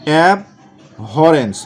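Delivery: very slow dictation. Shown as a demonstration. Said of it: "teacher slows the spelling word".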